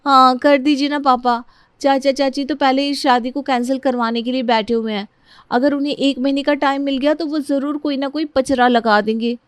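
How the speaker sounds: high-pitched urging to a father; lightly pleading bride's voice; pleading daughter. Acted. Priya urges her father.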